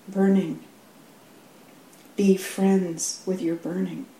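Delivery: measured, unhurried reading of a poem, with pauses. Acted. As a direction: let the lines land one by one. Reads Rumi poem aloud.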